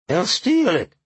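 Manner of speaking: high, hoarse protest; strained, high-pitched character voice; hoarse homeless man. A narrator's reading. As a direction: whine it hoarsely in worry. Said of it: "the man said hoarsely".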